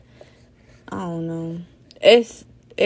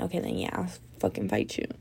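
mock tough; 10 semitones lower, 8 dB quieter, faster than usual. Imagined fight reply.

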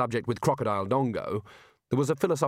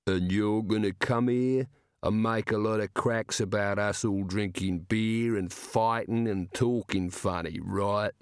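enormous slow giant rumble; slower than usual. Acted. Giant threatens.

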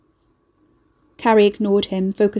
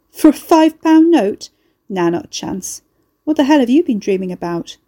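scoffing laugh; 4 semitones higher, 6 dB louder than usual. A narrator's reading. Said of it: "a short bark of laughter".

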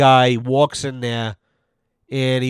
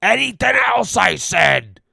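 "Anything else" shouted high and loud; loud snap; 5 semitones higher than usual. Retold or imitated. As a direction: yell "Anything else" in irritation. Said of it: "Just like that there".

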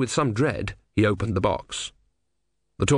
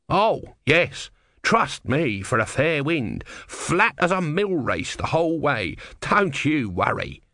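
high, breezy reassurance; confident tortoise god; 6 semitones higher, slower than usual. Acted. Tortoise god promises Brother a fair wind, high and assured. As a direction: lay on the confidence, pitched up.

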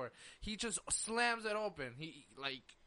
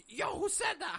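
retold demand; 10 semitones higher than usual. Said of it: "And the kid is asking him".

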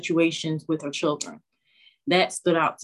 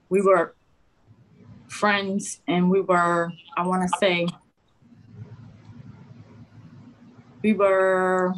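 nervous. Real, not acted. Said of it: "I'm a little nervous".

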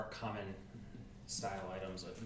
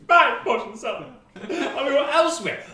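put-on shouting old man; 18 dB louder than usual. Old man harassing customer.

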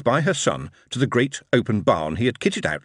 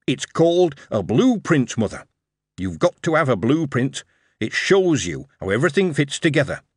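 put-on patient young lad; 4 semitones higher than usual. Dick explaining the blueprint.

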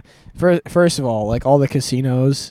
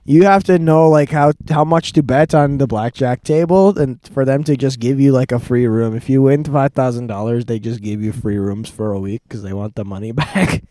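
louder, livelier retelling of a know-it-all tourist; imitating the Bulgarian guy; 6 dB louder than usual. Narrator mimics the Elon Musk lookalike giving casino tips, upbeat. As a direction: lightly play the tipster bragging. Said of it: "He's like".

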